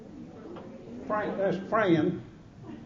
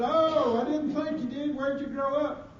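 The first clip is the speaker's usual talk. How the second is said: higher-pitched imitation of a relieved man; mock relief in a higher voice; relieved questioner; 6 semitones higher than usual. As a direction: mimic a relieved stranger, voice lifted. Relieved questioner acted out after reveal.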